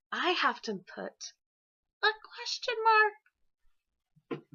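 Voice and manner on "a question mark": slow, higher drawn-out phrase. Shown as a demonstration. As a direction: stretch it out while drawing the mark. Writing the question mark.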